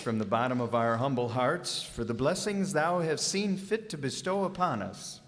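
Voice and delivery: reverent, measured grace at the table; solemn Thanksgiving prayer. Acted. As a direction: say grace humbly for the family. Father says a special grace.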